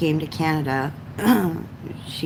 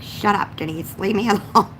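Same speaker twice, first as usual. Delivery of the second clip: mock annoyance; 5 semitones higher than usual. Teased mom retold snapping back.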